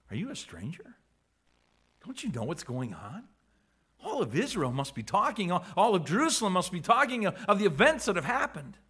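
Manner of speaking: stranger, don't you know; amazed dismay. Acted. Cleopas asks the stranger, mildly amazed and dismayed. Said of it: "in a tone of amazement and almost dismay".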